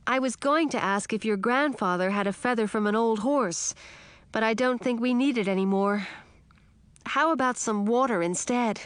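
put-on high, pleading young girl; a small frog insisting it must be true; frog princess.

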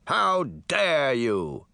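slow, affronted mirror voice; outraged shout. A narrator's reading. Mirror outraged as Jack shoves him aside, slow and affronted. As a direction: sputter with wounded pride. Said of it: "Mirror shouted".

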